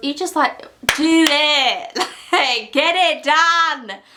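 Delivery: frantic, hysterical, drawn-out screaming. Wrapping up a Friday Reads video to viewers, screaming. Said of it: "Sorry, I'm screaming".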